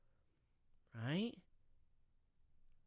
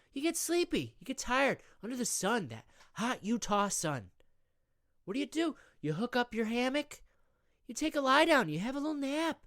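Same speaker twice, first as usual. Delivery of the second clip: high, eager sales pitch; salesy pitch; 6 semitones higher than usual. Acted. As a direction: sell it hard, building excitement. Scott pitches hammock to Tommy.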